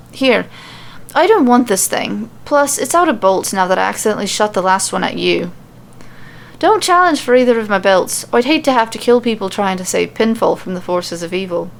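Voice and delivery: light Irish lilt, blunt; gruff-ish Irish brogue, lightly voiced; Irish accent. Becky handing back the crossbow, light Irish accent. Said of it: "super hard to switch between accents".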